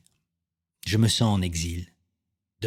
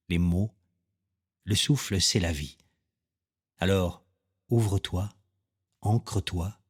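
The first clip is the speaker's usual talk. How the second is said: measured poetic mantra. Acted. Podcast host guiding listeners to open up and breathe, measured mantra. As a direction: let each short phrase settle before the next.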